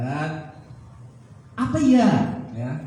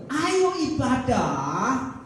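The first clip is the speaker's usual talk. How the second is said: God calling; much slower than usual. Acted. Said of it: "ketika Tuhan panggil".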